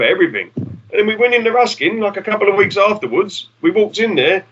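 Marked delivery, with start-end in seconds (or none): none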